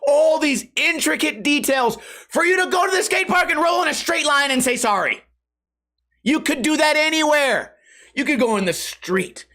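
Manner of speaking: ranting exasperation. Real, not acted. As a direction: rant at the absurdity. Ranting about park effort.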